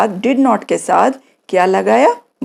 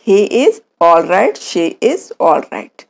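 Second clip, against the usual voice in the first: slow model answer; 3 semitones lower, much slower than usual. Shown as a demonstration. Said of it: "आप क्या बोलेंगे".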